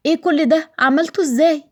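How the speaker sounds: overwhelmed by the surprise; amazed surprise. Acted. Nareen sees the transformed house. (نارين مندهشة من مفاجأة البيت)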